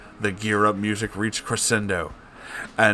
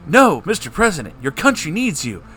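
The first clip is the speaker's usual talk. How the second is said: grave concern; 7 semitones higher, 4 dB louder than usual. Acted. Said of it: "with concerned graveness".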